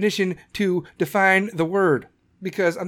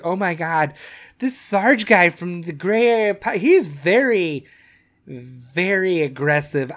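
slow, put-on voice of a pearl-clutching listener; offended listener; slower than usual. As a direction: drawl it like someone shocked by a rough host. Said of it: "people would be like".

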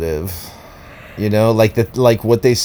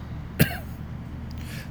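forced throat-clearing cough; put-on cough for attention; fake cough; 13 dB quieter than usual. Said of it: "That cough wasn't really real".

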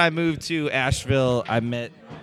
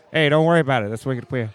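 reassuring Boston local, hammed up; Boston accent; 8 dB louder, faster than usual. Improviser demonstrating for castmates, reassuring in a Boston accent. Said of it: "if it's in a Boston accent".

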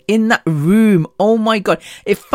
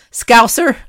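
lightly attempted Scouse, pitched up; attempted Liverpool accent; 4 semitones higher than usual. Shown as a demonstration. Naming what Liverpool people are called, attempted Scouse accent. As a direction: have a rough go at Scouse. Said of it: "I can't do a Liverpool accent".

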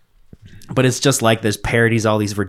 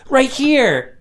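high-pitched parody damsel; mock helpless lady; 13 semitones higher than usual. Lady shows plumber where she is stuck, mock helpless. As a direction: answer in a put-on little whine.

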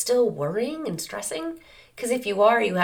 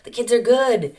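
owner calming dog; 5 semitones higher than usual. Acted. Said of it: "Just like we're saying".

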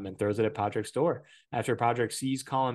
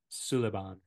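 put-on Irish accent; 2 semitones lower than usual. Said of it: "That was a really bad Irish accent".

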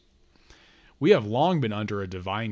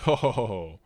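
terrible divine laughter. Acted. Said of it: "The god laughed through her mouth".

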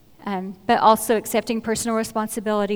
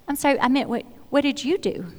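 pointed question; 3 semitones higher, faster than usual. Shown as a demonstration. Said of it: "Yes, I do say it like this".

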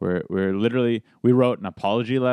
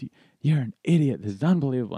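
higher-pitched, mildly angry imitation; retold indignation; mad friend; 4 semitones higher, faster than usual. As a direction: act out his exasperated telling-off. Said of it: "he's never been mad".

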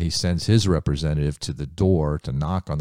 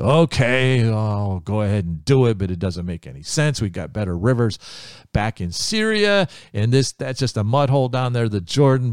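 louder grumbling agreement, Syria leaping up high; grudging complaint; 4 semitones higher, 4 dB louder than usual. Acted. Naaman grumbling to his servant about the muddy Jordan: loud reluctant complaint.

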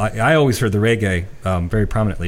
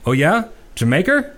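put-on light British accent, rising high on Jamaica; mock British Jamaica? with a big lift; lightly done British accent; 8 semitones higher than usual. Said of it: "now this is in a British accent".

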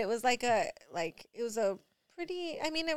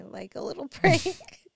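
louder, slower, giggling through prank; giggling confession; 5 semitones higher, 8 dB louder than usual. Retold or imitated. Mom voicing her son admitting the prank, giggling through it. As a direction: let a giggle break into the last word.

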